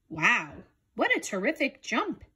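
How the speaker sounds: a touch of amazed calf; excited exclamation. Acted. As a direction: gasp out the praise, lifting on terrific. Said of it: "exclaimed Calf".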